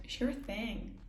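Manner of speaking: American accent. Shown as a demonstration. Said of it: "I'm gonna try and do an American accent".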